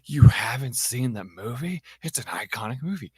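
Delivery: loud, incredulous outburst; shocked disbelief. Retold or imitated. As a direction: act stunned someone missed a classic. Coworker shocked at unseen movie.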